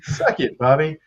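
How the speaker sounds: icy, quiet sneer; cold dismissive. Retold or imitated. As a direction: say it coldly, with contempt. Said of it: "That sounds so cold".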